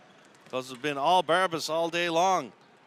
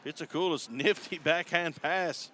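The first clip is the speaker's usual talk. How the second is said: brisk hockey call, names punched as the ball moves; arena commentator calling the rush; live play-by-play. Real, not acted. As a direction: call the action as it happens.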